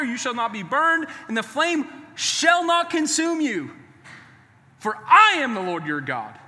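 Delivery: emphatic, driving scripture proclamation; fired-up preaching. Real, not acted. Preacher reading God's promise to Israel, fired up. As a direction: build through the verse, punching key phrases. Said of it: "I'm pretty fired up about this".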